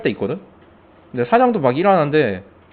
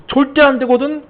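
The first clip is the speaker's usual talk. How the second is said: high, sharp mock refusal; flat refusal; 12 semitones higher, 4 dB louder than usual. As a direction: shut the idea down hard. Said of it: "이러면서 막". (높고 날카롭게 단칼에 거절)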